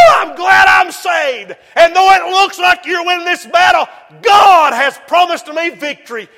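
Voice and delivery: mock defiant shout. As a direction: shout victory at the devil. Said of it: "shout in the face of the devil".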